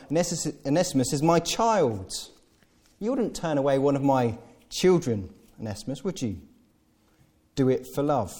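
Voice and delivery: guilt him gently; laying it on. Retold or imitated. Paul pleading for Onesimus, mild guilt trip. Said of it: "Again, he lays it on".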